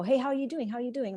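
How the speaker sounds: retold friendly hello to lighten the tension; energy-lifting greeting. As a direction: say it like a casual hello to defuse things. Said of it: "trying to change up the energy".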